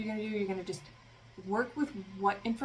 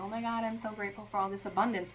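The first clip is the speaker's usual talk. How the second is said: fake cheerful; faster than usual. Shown as a demonstration. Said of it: "you know, a vocal fry, and I put on this fake smile".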